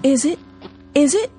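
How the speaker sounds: high, light birdlike chirp; chirping birds. A narrator's reading. Birds in the swamp mocking Bless, high chirping. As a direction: tease like mocking little birds. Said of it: "chirped the birds".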